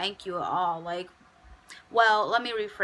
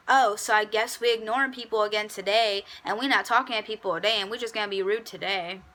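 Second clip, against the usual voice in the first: sarcastic jab; faster than usual. Retold or imitated. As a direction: needle him for ignoring people, fast. Sarcastic jab at ignoring coworker.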